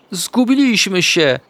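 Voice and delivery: high, drawn-out wail; stretched, high-pitched despair; panicked squeak. A narrator's reading. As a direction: squeal it in a little animal's panic. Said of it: "zapiszczał Ignaś".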